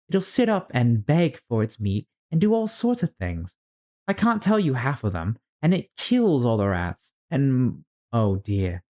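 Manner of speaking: put-on very high, gushing little girl; eager chattering girl. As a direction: babble happily as Alice. Alice chatters about dog.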